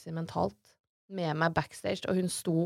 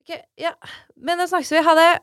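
high, loud fake-cheerful goodbye; panicked brush-off; 11 semitones higher, 11 dB louder than usual. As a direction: get off the phone fast, voice pitched up. Hun avslutter telefonen i panikk. (stresset, oppjaget avskjed)

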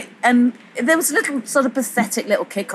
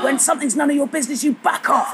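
higher, fast mock scolding; retold shouting; 7 semitones higher than usual. Train guard shouting at the narrator on the platform, mock angry. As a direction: play the guard telling her off, pitched up. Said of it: "got back on to shout at me".

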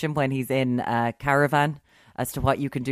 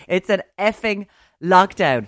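censored Malcolm quote; 3 semitones higher, 7 dB louder than usual. Retold or imitated. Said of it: "I, I can't curse".

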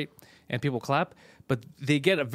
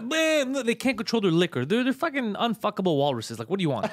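mock heckler; 6 semitones higher than usual. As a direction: mimic a drunk loudmouth jeering from a balcony. Heckler yelling from upstairs.

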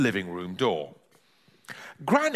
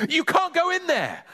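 mild yell. Acted. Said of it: "yelled Ben".

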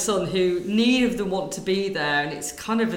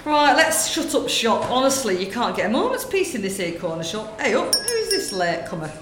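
lightly voiced gossiping northern woman, chatty; northern shop lady; 3 semitones higher, 5 dB louder than usual. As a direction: natter away like a corner-shop lady. Sketch, closing the shop.

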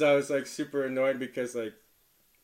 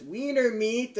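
retold heckle; 10 semitones higher, slower than usual. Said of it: "the other one says".

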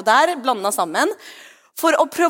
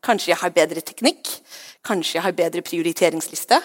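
lightly hushed, lower coaxing; gentle whisper, mimicked; 4 semitones lower than usual. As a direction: suggest it calmly in a lowered voice. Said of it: "kan av og til kanskje hviske til oss".

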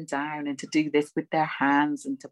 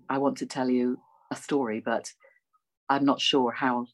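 staccato. Shown as a demonstration. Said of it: "a very staccato way of speaking, you know, like this".

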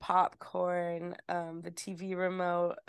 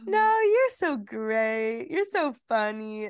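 slow, dreamy, blissed-out gush; 2 semitones higher, slower than usual. Retold or imitated. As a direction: drift through it slowly, floating and sweet. Imitating herself high on gummies.

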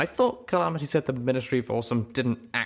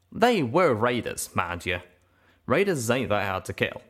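Calamity's voice, scoffing; 3 semitones higher than usual. Acted. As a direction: brush it off in the cowpoke voice. Calamity quickly justifying.

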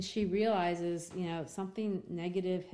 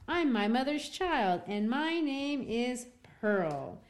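put-on raised, childlike voice for little Pearl; 5 semitones higher than usual. Teacher voicing little Pearl to the magistrates, a lightly raised child voice. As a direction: play the small girl answering the old men.

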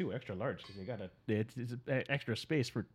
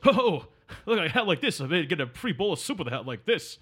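lightly voiced comic heckler; a hint of a wisecracking movie loudmouth; Rodney Dangerfield. Host quoting a film joke about a silly hat, light Rodney Dangerfield impression. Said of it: "an impression of Rodney Dangerfield".

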